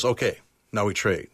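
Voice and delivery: lightly imitated calm trader; calm, composed. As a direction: settle into a composed, even tone. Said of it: "in a very calm, composed voice".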